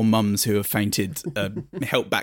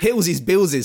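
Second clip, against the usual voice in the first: swooning fan; 7 semitones higher than usual. Acted. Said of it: "says one of the mums before they pass out".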